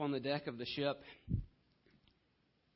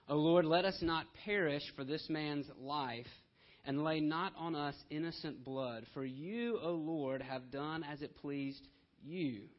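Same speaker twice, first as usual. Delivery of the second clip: mildly raised prayer, loudest at the start; calling out in prayer; 3 dB louder than usual. Acted. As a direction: read it as sailors appealing to God. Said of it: "they called out to the Lord".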